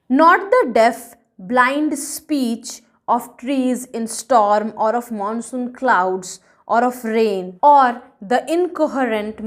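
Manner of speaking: slow verse with an emphatic start; measured, weighty poem reading; poem recitation. A narrator's reading. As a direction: open firmly, then recite slowly and deliberately. Reads the poem aloud.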